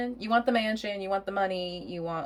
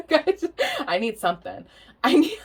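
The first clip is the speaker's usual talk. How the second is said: high, loud mock plea; a whiny voiced plea for help; pleading client; 10 semitones higher, 6 dB louder than usual. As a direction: beg the tarot reader like a needy client. Client begging for support, voiced.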